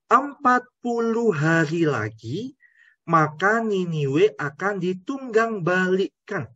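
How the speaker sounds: slow, weighty prophetic declaration; slow prophet's warning; solemn proclamation. Acted. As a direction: announce the doom deliberately. Quoting Jonah's proclamation.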